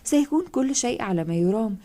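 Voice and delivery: gentle, reassuring plea; calming mother. Acted. Maria holding her mother's hands, calmly reassuring. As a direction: soothe her, lightly voiced. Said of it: "أحاول تهدئتها".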